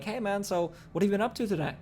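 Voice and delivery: relaxed, easygoing friendly question. Shown as a demonstration. Sales coach demoing a friendly catch-up question, easygoing. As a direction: ask it casually like catching up with a buddy. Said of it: "Just by changing my tonality there".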